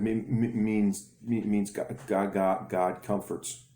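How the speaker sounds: repeated stammer on each word; a boy struggling to get words out; stuttering boy. Acted. Boy telling the bully his name's meaning, stammering. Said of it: "And he stutters".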